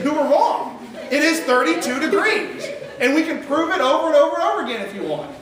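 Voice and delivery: chuckling through a cheerful comeback; laughing retort. Acted. Preacher playing a believer laughing off a wrong claim. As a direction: laugh as you correct them, picking up speed at the end.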